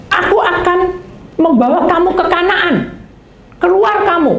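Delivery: high, loud proclamation; proclaiming God. Acted. God proclaims to Israel, high and loud. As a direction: announce it from above. God's promise voiced loudly.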